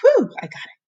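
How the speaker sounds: high relieved cheer. Real, not acted. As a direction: sigh of triumph, voice jumping up. Relief after hard word.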